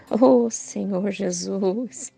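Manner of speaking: slow, drawn-out fervent cry to God; fervent testimony. Real, not acted. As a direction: let the awe stretch each word out. (testemunho fervoroso, lento e arrastado)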